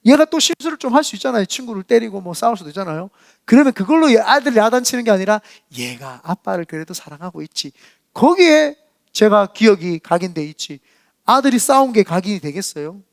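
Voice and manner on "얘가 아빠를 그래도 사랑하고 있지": soft, lower inner voice; tender, quiet musing; fond forgiveness. Acted. Father overlooking his son's mistake, fond forgiveness.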